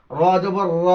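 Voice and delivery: র said thick and full, "raw"; heavy র. Shown as a demonstration. Teacher drills the letter for pupils, thick full র. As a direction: make the র heavy and rounded. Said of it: "রটা হবে মোটা".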